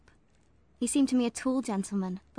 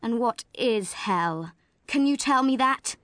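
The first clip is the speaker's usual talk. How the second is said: stern clergyman; 4 dB louder, slower than usual. Acted. Brocklehurst's voice again.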